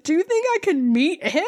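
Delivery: high, eager fanboy voice; starstruck. Retold or imitated. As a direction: ask it like an excited fan. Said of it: "Tung's like".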